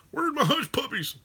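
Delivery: high whispered demand for hush puppies; mock whining whisper. Chatter bitching at him for no hush puppies, in a high whisper. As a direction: whisper it up high like a sulky customer.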